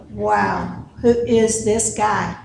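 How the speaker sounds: soft, low, slow amazement; hushed awe. Acted. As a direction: quietly act out dumbfounded onlookers. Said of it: "standing there with their mouths open".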